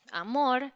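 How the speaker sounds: amor, loaded with feeling; expressive amor. Shown as a demonstration. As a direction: lean on amor, make it mean something. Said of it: "decir amor con una entonación específica".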